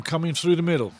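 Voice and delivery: ordinary talk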